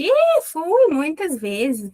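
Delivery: high, drawn-out casual exclamation; acted boastful reply. Teacher voicing a person telling of many trips, acted reply. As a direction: play someone who has been loads of times. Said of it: "a pessoa vai contar pra gente".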